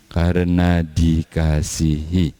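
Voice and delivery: karena dikasihi drawn out slowly and softened; slow, lingering repeat. Shown as a demonstration. Preacher to congregation, repeating karena dikasihi slowly.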